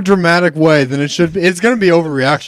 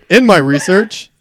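breaking into laughter mid-phrase; struggling to speak through laughter; laughing; 4 semitones higher, 4 dB louder than usual. Real, not acted. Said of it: "laugh cry".

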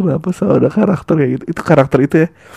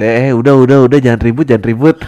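louder, calming "jangan ribut"; peacemaker bandmate; 4 dB louder than usual. Acted. Mediating bandmate calming the quarrel, louder. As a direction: break up the fight. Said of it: "personil yang memenengahi".

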